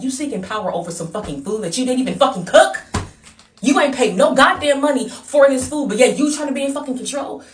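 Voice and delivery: loud, high, incredulous challenge; outraged, rising rant; indignant outburst. Retold or imitated. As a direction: challenge them at near-shouting volume. Acted indignant confrontation over food.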